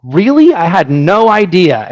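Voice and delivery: playing the clueless customer; mock surprise. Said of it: "And they're like".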